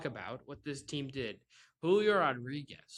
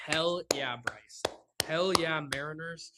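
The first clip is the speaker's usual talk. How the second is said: loud, sarcastic "hell yeah"; sarcastic cheer; 2 semitones higher, 4 dB louder than usual. Real, not acted. Fed-up podcaster mock-cheering his losing team, sarcastic.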